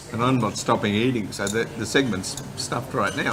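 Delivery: talking with a mouth full. Real, not acted. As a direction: speak through a mouthful of food. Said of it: "you shouldn't talk with your mouth full".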